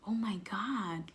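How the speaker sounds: slow, stunned whisper; shocked whisper. Retold or imitated. Finding his video on the phone, stunned whisper. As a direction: breathe it out in disbelief.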